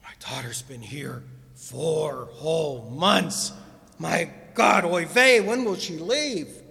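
put-on exasperated father in a Yiddish accent; kvetching Yiddish dad, building loud. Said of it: "I could see the father".

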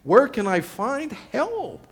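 high, loud cry for help; desperate cry. Acted. Preacher acts out the psalmist's cry for help, desperate. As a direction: shout it, then draw out the plea. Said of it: "utter his desperate cry".

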